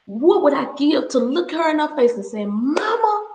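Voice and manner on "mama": near tears, speaking to her late mother; slow, emotional address to mama; choked-up. Real, not acted. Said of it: "I'm getting teary-eyed".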